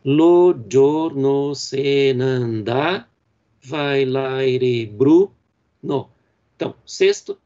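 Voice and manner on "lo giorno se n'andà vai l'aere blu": Lo giorno se n'andà read very slowly, stressed syllables marked; scanned verse. Shown as a demonstration. Teacher scanning Dante's verse slowly for the class. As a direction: drag out the line beat by beat. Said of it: "como nós temos aqui nesse exemplo".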